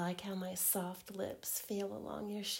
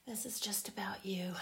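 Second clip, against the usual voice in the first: intimate teasing whisper. Acted.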